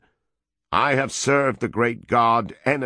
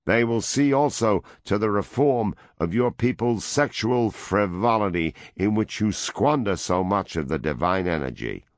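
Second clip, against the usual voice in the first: loud, higher dictatorial demands; raised voice; 6 semitones higher, 3 dB louder than usual. A narrator's reading. American envoy dictating terms to the woman, loud and high. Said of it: "the American raised his voice".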